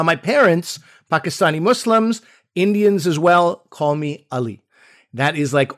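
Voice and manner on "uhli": ALI said like "UH-lee"; short UH opening. Shown as a demonstration. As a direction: begin Ali with a short uh, as spelled U-H-L-I. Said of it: "almost spelled U H L I".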